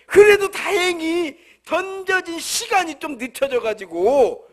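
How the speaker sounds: ordinary delivery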